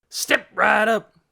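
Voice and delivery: loud, high, slow hawker's call. A narrator's reading. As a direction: draw in a crowd with a big call. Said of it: "called Trog".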